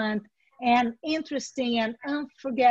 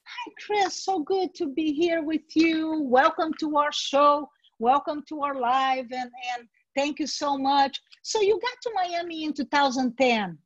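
gushing interviewer. Shown as a demonstration. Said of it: "you start interviewing".

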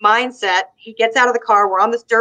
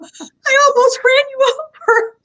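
high, slow, laughing through the words; slow laughing squeal; laughing confession; 4 dB louder, slower than usual. Retold or imitated. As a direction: admit it while cracking up. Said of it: "I'm like".

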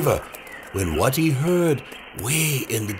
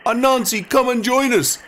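high spirit voice; 11 semitones higher, 4 dB louder than usual. Acted. Spirits invite Anansi.

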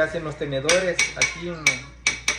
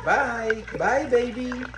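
imitating the parrot; 3 semitones higher, much slower than usual. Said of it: "Cuando me voy a trabajar dice".

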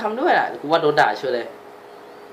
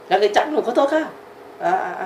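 put-on child voice; 6 semitones higher than usual. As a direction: apologize like a small child. Dubbing the child's lines. (เสียงเด็กเล็กขอโทษเสียงแหลม)

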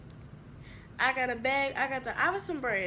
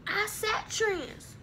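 slow drawn-out; 8 semitones higher, much slower than usual. Acted. Final chorus tag stretched out.

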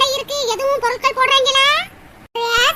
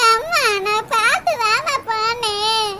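crying; 4 semitones lower, slower than usual. Acted. Fallen daughter crying to mother.

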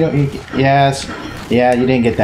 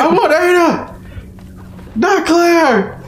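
high, slow whine; mock whiny character; much slower than usual. Friend voicing the character whining for Ada, high and slow. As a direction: wail it like a spoiled brat.

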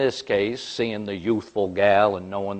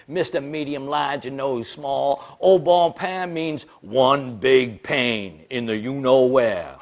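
slow mocking punchline; 2 semitones higher than usual. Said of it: "he was all upset".

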